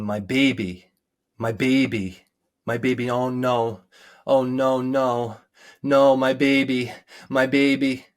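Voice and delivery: mild mock wail that builds to a cry; retold anguished wailing. Mother finding her son dead, retold rising wail. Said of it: "and just started screaming".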